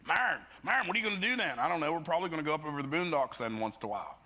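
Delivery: high-pitched calls in Pennsylvania small-town talk; Lewistown, Pennsylvania accent. Shown as a demonstration. Two townsfolk chatting about plans, Lewistown accent. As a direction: imitate old Lewistown, Pennsylvania speech. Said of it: "that's how we used to talk".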